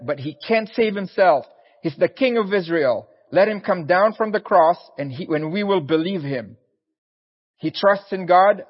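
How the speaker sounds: mock him like a smug chief priest; scornful mockery. Chief priests scoff at Jesus on the cross with sneering taunts. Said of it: "mocked him".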